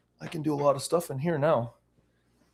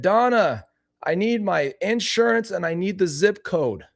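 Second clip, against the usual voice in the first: put-on high old man calling out; older man voice; 7 semitones higher than usual. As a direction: call for help like a needy old man. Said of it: "my older man accent".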